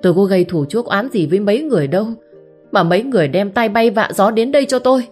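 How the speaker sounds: rising furious outburst, ending in a shout; angry accusation. Acted. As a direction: tear into him, building to a yell. Hến furiously confronts the man. (giận dữ quát tháo, càng lúc càng to)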